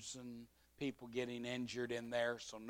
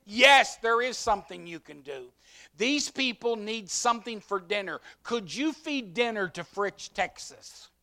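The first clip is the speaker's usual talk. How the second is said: higher, louder official ask; commander's request; 7 semitones higher, 9 dB louder than usual. Retold or imitated. Commander asking the pastor to feed Fritch, loud. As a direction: lay out the request loudly.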